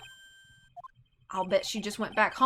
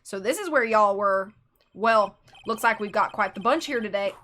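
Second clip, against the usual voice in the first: put-on folksy Southern accent, a touch louder; 5 dB louder than usual. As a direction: greet the crowd with a Southern twang. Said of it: "hang on, southern accent".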